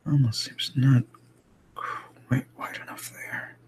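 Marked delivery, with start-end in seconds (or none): 1.7-3.6 whisper. Real, not acted. Muttering to self while drawing.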